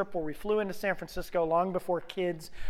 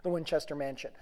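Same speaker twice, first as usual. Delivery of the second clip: soft, lower regretful sighing; wistful wife; 4 semitones lower, 8 dB quieter than usual. Retold or imitated. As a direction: mildly imitate a wistful wife. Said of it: "she always".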